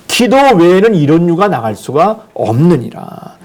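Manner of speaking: slow, measured, distant-sounding pronouncement; slow solemn divine decree; solemn voice of Jesus. Acted. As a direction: pronounce it slowly like a holy decree.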